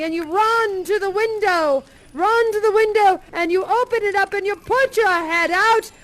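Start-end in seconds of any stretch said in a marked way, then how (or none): 4.0-5.9 joyful wonder. A narrator's reading. Joyful morning narration.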